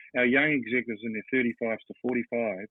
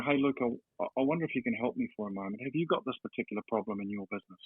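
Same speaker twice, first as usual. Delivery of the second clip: soft approach; 3 dB quieter than usual. Shown as a demonstration. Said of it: "That's a lot softer than".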